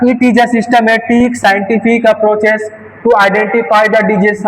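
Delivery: very slow, word by word; slow dictation. Shown as a demonstration. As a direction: dictate each word slowly for notes. Dictating definition to students. (बहुत धीरे, लिखवाने जैसा)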